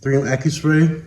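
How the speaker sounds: echoey booth voice; speaking in a reverberant room; big hall echo. Real, not acted. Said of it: "Sorry about the reverb".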